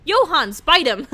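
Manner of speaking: high, loud play-angry yell; mock outraged shout. Streamer yelling at the drunk officer in play, mock outraged. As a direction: shout back in hammed-up defence of Johans. Yells back at Officer Lee.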